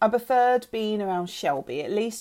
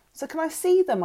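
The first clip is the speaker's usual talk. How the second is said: higher-pitched, eager ask; eager question; 10 semitones higher, 3 dB louder than usual. A narrator's reading. Girl asking the lawyer about her parents, eager. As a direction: ask it with lifted, hopeful eagerness. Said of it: "I said eagerly".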